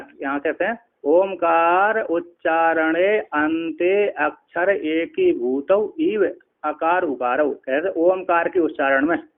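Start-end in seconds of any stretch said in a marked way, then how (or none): 1.0-7.5 slow, measured Sanskrit reading; scripture recitation. Acted. Teacher reads the Sanskrit commentary aloud to students, slow and measured. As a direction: lay out each word of the verse deliberately.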